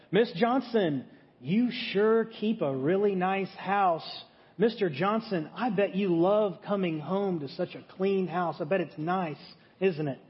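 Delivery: mildly sugary passive-aggressive praise; lightly mock the host couple with fake sweetness; passive-aggressive compliment. Husband needling his wife through compliments to the hosts, mildly sarcastic. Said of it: "a really passive-aggressive comment".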